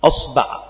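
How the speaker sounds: أصبع with fatha on the hamza and fatha on the ba, aṣbaʿ; أصبع said as aṣbaʿ, both vowels open a; vowel demo. Shown as a demonstration. Teacher spelling out the variant for students, careful clear aṣbaʿ. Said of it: "فتقول بفتح الهمزة".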